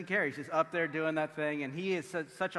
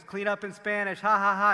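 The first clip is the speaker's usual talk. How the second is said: mock laugh; 6 semitones higher, 8 dB louder than usual. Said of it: "And she goes".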